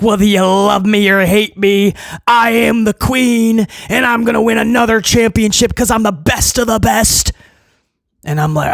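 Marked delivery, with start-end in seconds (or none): 0.0-7.3 mock heel promo. Wrestling podcaster mocking Charlotte's heel promo, smug boast. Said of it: "She's like".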